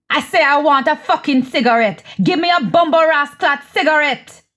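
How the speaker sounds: acted cursing insistence; angry demand. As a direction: demand it, pitch climbing, patience gone. Acted quarrel, demanding a cigarette.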